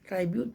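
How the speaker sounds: ट्रिब्यूट said as "TRY-byoot"; long "ai" in the first syllable of ट्रिब्यूट; common mispronunciation of tribute. Shown as a demonstration. Teacher quotes the common error, ट्रिब्यूट as "try-byoot". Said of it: "ट्रिब्यूट पढ़ देते हैं".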